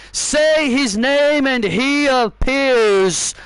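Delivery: drawn-out arena announcer; slow, grand ring announcement; slow announcer intro. Acted. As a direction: announce him slowly to the arena.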